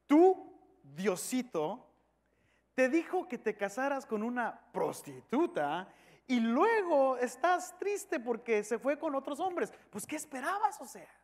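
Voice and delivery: mildly mocking disbelief; mocking crowd. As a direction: scoff at the prophet, rising into incredulity. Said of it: "toda la gente riéndose de él". (burla incrédula)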